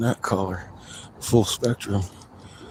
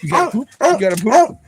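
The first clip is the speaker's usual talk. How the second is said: high, rising sing-song question; 11 semitones higher, 5 dB louder, faster than usual. Real, not acted. Asking the dog if it needs to poop, high baby talk.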